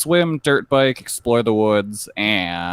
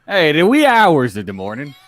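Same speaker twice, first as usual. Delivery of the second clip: higher, louder mock Scottish-Irish voice; put-on muddled Celtic accent; 5 semitones higher, 5 dB louder than usual. List reader replays own slip, muddled Scottish-Irish accent. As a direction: exaggerate a botched Celtic accent. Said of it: "Is that your Irish?".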